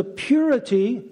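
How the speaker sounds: purity set out with clear emphasis; stress on purity. Real, not acted. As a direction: lean on the word purity. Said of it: "I emphasize the word purity".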